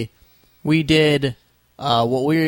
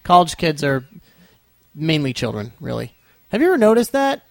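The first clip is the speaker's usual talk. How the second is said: excited incredulity; 5 semitones higher, 4 dB louder than usual. Real, not acted. Mock-incredulous rant.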